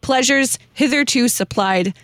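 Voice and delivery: slow, measured recitation of a hymn verse; slow solemn hymn recital; hymn reading. Acted. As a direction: read it out like a devout poem. Reads hymn stanza aloud.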